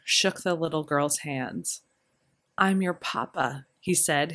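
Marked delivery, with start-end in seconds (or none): 2.6-3.7 gentle, awed. Acted. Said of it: "his words gentle and his voice awed".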